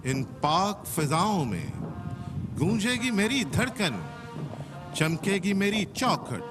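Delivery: measured verse, long pauses between lines; patriotic poem recitation. Acted. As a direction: recite with swelling pitch that falls away at each line's end. (देशभक्ति कविता का ठहर-ठहर कर पाठ)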